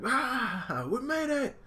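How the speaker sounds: cheer, then laugh it off; high hammed-up relief; relieved hero. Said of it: "And he's like".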